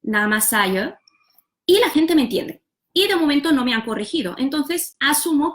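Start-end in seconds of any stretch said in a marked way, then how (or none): 0.0-0.9 Namasayo with a schwa ending; neutral vowel in Namasayo. Shown as a demonstration. Learner introducing herself in Malay, Namasayo with neutral vowel. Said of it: "cuando yo digo mi nombre".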